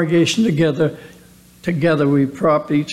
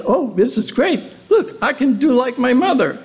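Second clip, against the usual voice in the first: excited eaglets; 5 semitones higher than usual. Acted. Eaglets' excited voiced quote.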